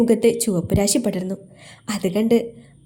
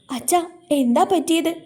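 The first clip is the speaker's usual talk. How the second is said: put-on worried girl; 7 semitones higher than usual. A narrator's reading. Daughter sees father upset.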